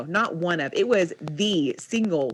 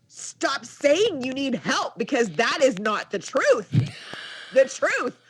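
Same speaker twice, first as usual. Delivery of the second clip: retold exasperated parent, pitch raised; yelling back; 5 semitones higher than usual. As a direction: scold a child, half-yelled and emphatic. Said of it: "I'm yelling back at him".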